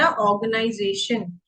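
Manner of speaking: ऑर्गेनाइजेशन drawn out a little, R silent; slightly stretched. Shown as a demonstration. Teacher demonstrating a long word, slightly stretched with silent R. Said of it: "जब मैंने बोला तो थोड़ा लंबा खींचा".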